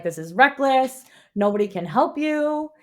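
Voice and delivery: lightly anxious retelling, pitch jumping up; mock worried pleading. Prince begging heroine to skip the trip, lightly mock-worried. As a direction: plead with her as the fretting friend.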